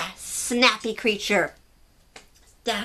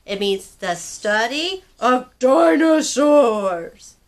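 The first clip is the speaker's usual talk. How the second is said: excited teacher exclaim; 6 dB louder, slower than usual. Acted. Teacher exclaims word meaning.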